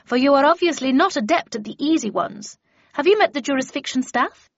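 put-on a cutting, scornful old lady; stern old lady Havisham. A narrator's reading. Havisham voiced in story.

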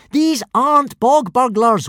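put-on high urgent boy's warning. A narrator's reading. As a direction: urgently warn them. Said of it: "warned Hiccup".

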